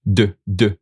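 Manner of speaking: de, de, tapping the d; isolated d sound. Shown as a demonstration. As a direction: sound out the d of ronde. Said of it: "now you'll pronounce that last part".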